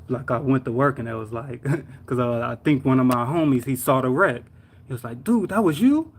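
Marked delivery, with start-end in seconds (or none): 5.2-6.1 high-pitched astonished question; retold disbelief. Coworker who saw the wreck, amazed. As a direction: react as if you can't believe it.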